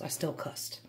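sheepish whisper to herself; whispered aside after slipping up; whispered confession. Real, not acted. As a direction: whisper it, a little guilty. Admits swearing after all.

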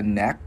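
"neck" with the final K caught in the throat; K stopped in throat. Shown as a demonstration. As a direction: cut "neck" off on a crisp throat K. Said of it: "mình khựng cổ là chữ K". ("neck", khựng cổ ở âm K cuối)

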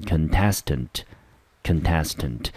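contestant stressed on TEST; con-TEST-ant, weak first and last syllables; stress on second syllable. Shown as a demonstration. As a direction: keep con short in contestant, hit TEST. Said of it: "中音节落在第二个音节".

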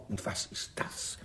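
voiceless and slow; hushed question on finding champagne; slow curious whisper. Acted. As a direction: whisper it as you spot the clue. Discovering the hidden lover.

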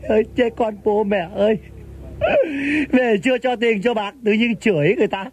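whiny mock wail; mock crying. Nephew moaning to uncle about money, mock crying. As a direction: complain through put-on sobs. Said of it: "Mày khóc hả?".

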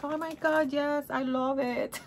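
put-on high, gushing Latina auntie accent, drawn out at the end; heavy Latina accent. Niece imitating her aunt, heavy Latina accent. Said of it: "we have that heavy accent. She's like".

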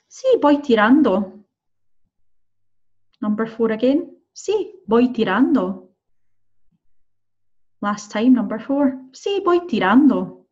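slow, clear listening-test reading; slow dictation. Shown as a demonstration. Teacher dictating to students, slow and clear. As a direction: draw out each word for learners.

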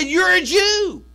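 high, loud, slow exclaiming woman; Samaritan woman, slow. Retold or imitated. Preacher voices the Samaritan woman again, high slow exclamation. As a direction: stretch it out high and loud, astonished. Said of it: "She said".

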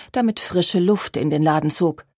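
ordinary delivery, nothing marked

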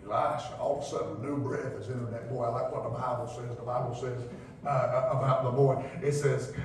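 hushed prayer retold by the preacher; hushed sermon. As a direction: bring it down to a hush. Hushed storytelling climax.

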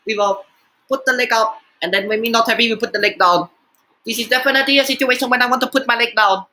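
lightly put-on accented comic uncle, broken English; lightly voiced catchphrase character; Uncle Roger. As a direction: do a hint of a scolding comic uncle. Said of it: "what I like to call the Uncle Roger thing".

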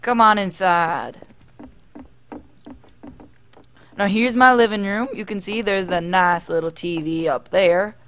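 put-on drawled tour-guide accent. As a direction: show guests around in a put-on accent. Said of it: "speaking in this accent".

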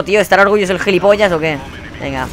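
ordinary delivery

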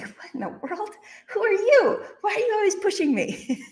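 high, half-laughing disbelief; laughing shock at being pushed; incredulous outburst. Retold or imitated. Wife laughing in disbelief at husband's request.

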